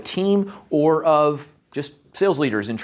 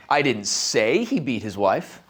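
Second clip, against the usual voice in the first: he lifted with a rise, slower; hint that it was someone other than he; stress on he; 5 semitones lower, slower than usual. Shown as a demonstration. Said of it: "every time I change which word I inflect".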